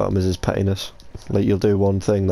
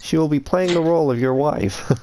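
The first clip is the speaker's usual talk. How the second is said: pimp roleplay voice; 6 semitones higher than usual. Pretend.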